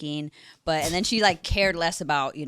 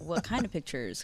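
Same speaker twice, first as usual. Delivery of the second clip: eerie; 9 dB quieter than usual. Retold or imitated. Mom questioning her daughter about the pictures, softly eerie. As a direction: imitate mom's wary question, softly. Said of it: "kinda, like, eerie".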